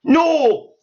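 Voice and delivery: emphatic no. Real, not acted. Reacting to a claim, a loud flat-out no. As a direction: shut the idea down hard.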